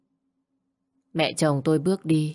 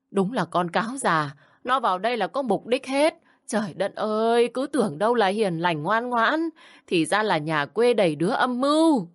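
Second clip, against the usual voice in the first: higher-pitched mild rant; ranting mother-in-law; 5 semitones higher than usual. Acted. Mother-in-law rants to her son about the scheming bride. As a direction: pile the insults on.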